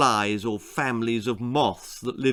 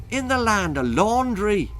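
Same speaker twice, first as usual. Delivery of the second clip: Irish leprechaun; 8 semitones higher than usual. A narrator's reading. Leprechaun answers.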